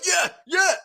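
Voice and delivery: mock the fighter pumping himself up; hyped boxer. Streamer mimics Frazer Clarke strutting the ring, hyped mock voice. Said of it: "He's going".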